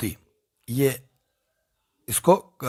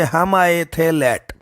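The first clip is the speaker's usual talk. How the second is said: slow, leaning on आए; slow mnemonic drill; much slower than usual. Shown as a demonstration. Teacher repeating the memory trick to students, slowly. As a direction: recite the trick slowly so it sticks. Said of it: "तो याद कैसे रखोगे?".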